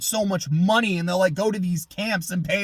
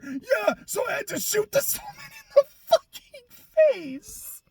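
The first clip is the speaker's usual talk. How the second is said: mock careless villain. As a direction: toss it off like it's nothing, mockingly. Mocking the character.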